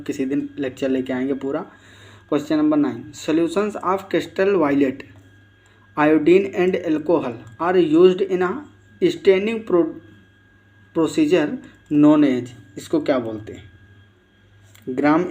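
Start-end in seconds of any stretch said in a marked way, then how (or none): 3.1-12.5 very slow, deliberate question reading; reading an exam question. Acted. Teacher reads the quiz question to students, very slowly. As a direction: spell the question out slowly for the class.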